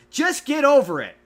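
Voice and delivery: high, loud preachy sing-song; mock chipper dinosaur brushing off feelings; mocking Barney. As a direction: sneer it like a dismissive cheerful lecture.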